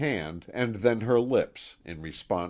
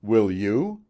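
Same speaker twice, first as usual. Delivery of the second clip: sharp, loud challenge; hard ill-tempered demand; 2 semitones higher, 7 dB louder than usual. A narrator's reading. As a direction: snap the question at him. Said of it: "she was in an ill temper".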